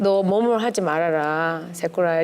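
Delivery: low, slow imitation of gentle counsel; slow, low quoted admonition; imitating Jan's advice. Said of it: "잔이 그러더라고요".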